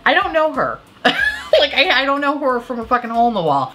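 giggly, words broken by laughter; laughing. Real, not acted. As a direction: laugh through the line. Laughing at her own remark.

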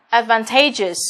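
"advantageous" nhấn âm tiết thứ ba "ta"; trọng âm của "advantageous" rơi ngay trước đuôi "ous". Shown as a demonstration. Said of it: "là trọng âm rơi vào âm ba". (nhấn "ta" trong "advantageous")

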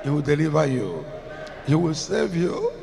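loud preaching declaration; loud fervent preaching; rising declaration. Real, not acted. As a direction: proclaim it with full force. Preacher declaring blessings at peak.

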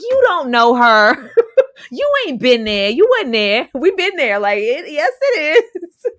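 loud, laughing, crying-out protest; laughing rant. Real, not acted. Answering the cousin on screen, loud laughing protest.

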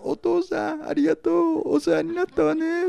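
high, tender mock widow voice; grieving wife. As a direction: mimic the wife thanking her husband at the coffin. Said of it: "奥さん".

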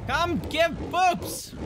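high, slow sing-song pig; cute pig voice. Pretend. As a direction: stretch it out like a happy pig. Drawn-out high pig call.

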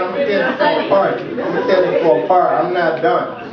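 high, loud, insistent grief; emotional shout. Real, not acted. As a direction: refuse to be stopped. Grieving grandson insists on speaking.

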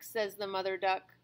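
gentle storybook reading voice; reading to children. Acted. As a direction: read aloud to a small child. Reads a picture book to a child.

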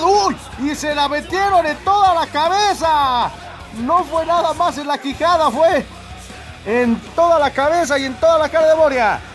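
rising excited commentary. Real, not acted. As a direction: call the hit with a jolt of excitement. Excited commentator at big hit.

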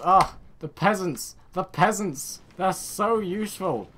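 high, loud, drawn-out gushing; gushing delight. Pretend. Player greeting peasant reinforcements, gushing delight. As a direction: gush slowly over the new arrivals.

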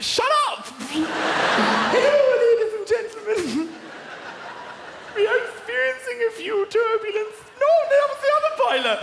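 very high, loud Irish-Indian pilot voice; hammed-up Irish-Indian captain on the PA; Irish Indian accent. Ryanair pilot announcing engine reboot, high loud Irish-Indian accent. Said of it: "kind of Irish Indian".

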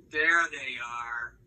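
slow, tender admiration. Real, not acted. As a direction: savour each word gently. Parent admiring child's eyes.

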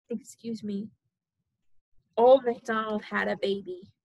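sing-song storybook reading; reading to a toddler. Acted. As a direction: read it bouncy for a baby.

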